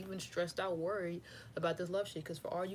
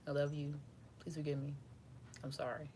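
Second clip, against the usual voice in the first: sincere prayer; 2 semitones lower, 5 dB quieter than usual. Shown as a demonstration. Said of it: "It's like the Pono Pono saying".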